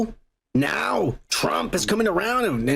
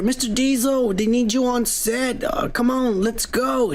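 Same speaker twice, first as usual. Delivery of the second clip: higher, hurried assistant urging; a flustered assistant hurrying him to set; frantic stressed assistant; 6 semitones higher than usual. Retold or imitated. Assistant voiced in retold story.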